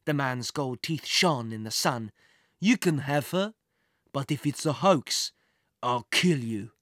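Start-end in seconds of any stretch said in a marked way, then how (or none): 2.6-6.7 menacing villain. A narrator's reading. Villain threatens the boy.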